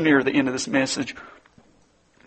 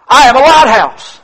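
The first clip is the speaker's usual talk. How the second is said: higher and louder final declaration; chilling reply; 10 semitones higher, 12 dB louder than usual. Acted. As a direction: land the punchline with force. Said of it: "The private's final transmission was chilling".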